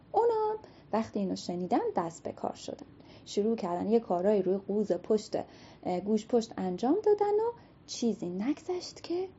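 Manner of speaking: storyteller opening the tale; storybook narration. A narrator's reading. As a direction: tell it to children at bedtime.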